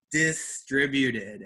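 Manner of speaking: distributed said slowly and clearly; slow stress model for the class; teacher's careful repeat; slow model word. Shown as a demonstration. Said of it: "the first syllable is stressed".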